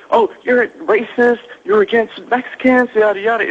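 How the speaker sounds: high mocking voice of the angry woman; mock whiny accusation; mocking the heckler. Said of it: "They wanted to".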